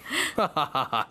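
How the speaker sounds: a quick knowing chuckle; short laugh. Acted. Laughs at the introduction.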